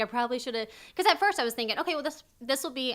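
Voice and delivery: fast, excited rush of words. Recounting a past decision to a listener who agrees along, talking fast, excited. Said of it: "I'm talking so fast because I'm so excited".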